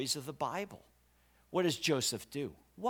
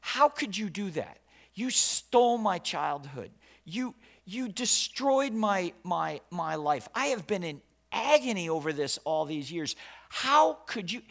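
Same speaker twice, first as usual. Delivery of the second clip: mock verbal attack; 2 semitones higher, 3 dB louder than usual. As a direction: let them have it, voice climbing. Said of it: "He went after him verbally".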